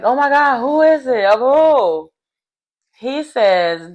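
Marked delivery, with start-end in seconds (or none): 0.0-2.1 higher-pitched imitation of astonished players; mock shock. Players looking around for the secret parent, mock shocked. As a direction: act out a stunned group's questions.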